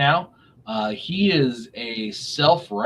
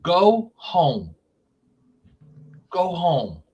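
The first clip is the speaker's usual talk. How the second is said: mock telling off; 5 semitones higher than usual. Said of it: "And it's like".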